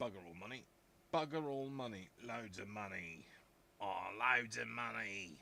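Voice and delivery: rough Brummie comedy-character impression; Brummie accent. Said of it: "Yeah, that was Birmingham, wasn't it?".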